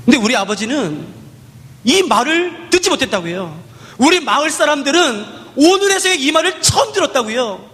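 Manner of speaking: put-on a little girl's aching complaint; grieving child.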